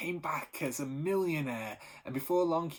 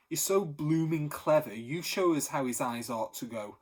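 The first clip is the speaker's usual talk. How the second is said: louder and higher, a building sarcastic rant; passionate outburst; 6 semitones higher, 6 dB louder than usual. Acted. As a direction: hurl the sarcasm at him with rising heat. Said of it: "said Benny passionately".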